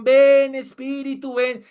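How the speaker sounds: high, drawn-out mocking whine; mock tearful worship. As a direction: mimic a sobbing congregant. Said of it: "Y lloran, hermano, y moquean".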